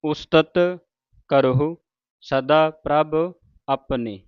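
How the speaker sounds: ਆਪਣੀ said with a plain dental ਨ, not ਣ; word by word, ending on a dental ਨ in ਆਪਣੀ; ਆਪਣੀ ਵਿੱਚ ਨ ਦੀ ਆਵਾਜ਼. Shown as a demonstration. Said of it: "ਨੰਨੇ ਦੇ ਨਾਲ".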